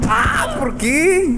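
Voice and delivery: high panicked cry; scared horror game streamer. Real, not acted. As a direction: whine it in fright. Still panicking after scare.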